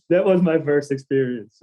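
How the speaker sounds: real laugh running into the words. Real, not acted. Telling the interviewer about her first fall, laughing.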